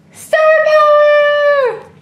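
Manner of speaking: high, loud, slow drawn-out announcement; dramatic proclamation. Pretend. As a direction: announce it like a superhero slogan. Reading message dramatically.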